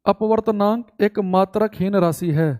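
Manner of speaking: measured Hindi phrase for note-taking; teacher dictating the definition; slow dictation. Shown as a demonstration. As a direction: read it out slowly for writing. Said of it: "तो लिखेंगे".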